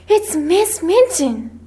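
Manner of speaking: slow, high-pitched alarm; dread. A narrator's reading. Becky warns the girls of Miss Minchin, dread. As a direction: draw the warning out in dread.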